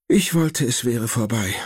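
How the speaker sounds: high, lightly voiced worried grandmother; grandma's voice. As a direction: speak up high as the fussing grandma. (hohe, besorgte Oma-Stimme)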